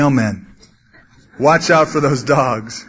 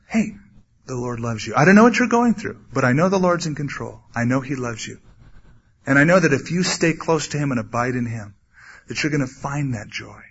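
softer, reassuring comfort; gentle encouragement; 3 semitones lower, 4 dB quieter than usual. Pretend. To a down brother, soft reassurance. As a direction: speak gently to someone who is hurting. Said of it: "Instead, encourage them".

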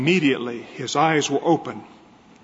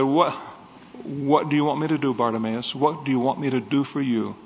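gentle Jesus; 3 semitones lower, 4 dB quieter than usual. Acted. Jesus speaks gently to beggar.

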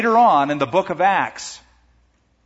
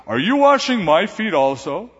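incredulous Peter; 4 semitones higher, 4 dB louder than usual. Acted. Peter voiced questioning Jesus.

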